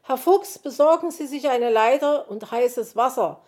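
high, loud, urgent calling; very agitated. A narrator's reading. Magpie orders the fox to fetch hot water, frantic. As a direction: call out instructions in a flap. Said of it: "in heller Aufregung".

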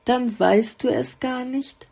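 a bright little note of wonder; amazed. A narrator's reading. The flower wonders at the clueless bird, mildly amazed. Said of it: "staunte die Blüte".

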